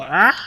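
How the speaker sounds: kiwi scream imitation. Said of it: "They go".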